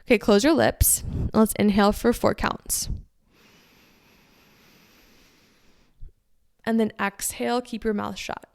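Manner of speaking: guided breathing. Shown as a demonstration. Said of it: "I'll try to do it with you and demonstrate".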